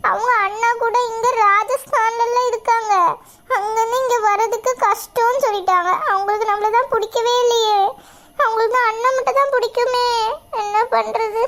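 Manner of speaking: tearful, words catching on sobs; crying. Acted. Girl missing her mother, crying to her sister.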